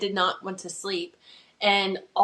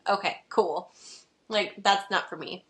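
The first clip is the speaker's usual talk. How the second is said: mouth full. Real, not acted. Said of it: "oatmeal still in my, my mouth".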